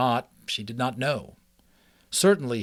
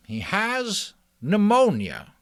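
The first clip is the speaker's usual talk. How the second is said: put-on higher, kindly old mouse; 10 semitones higher, 5 dB louder, slower than usual. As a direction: speak as a wise old mouse. Ages speaks.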